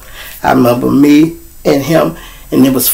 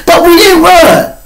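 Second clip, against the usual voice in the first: slow, high mock shout; friend protesting; 4 dB louder than usual. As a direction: drag it out, proud. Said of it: "He like".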